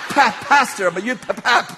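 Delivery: mock panicked stuttering; tongue-tied stammer. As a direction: stumble over the word as if shaken. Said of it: "I cannot form words".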